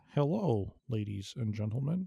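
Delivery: soft public-radio voice. Recalling how the podcast's very first episode opened, in an NPR voice. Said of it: "sounded like something off an NPR".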